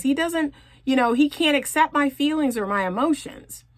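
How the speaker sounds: lightly voiced complaint, half-whiny; frustrated client. Coach imitating women who say their words failed. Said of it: "you come to me and you say".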